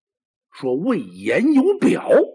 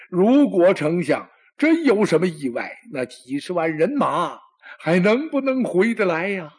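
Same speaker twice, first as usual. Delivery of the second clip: louder, rising alarm, stress on 真; anxious emperor; 5 semitones higher, 4 dB louder than usual. Acted. Emperor fretting over the chancellor's army, louder and higher with fear. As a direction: fear building into a high cry.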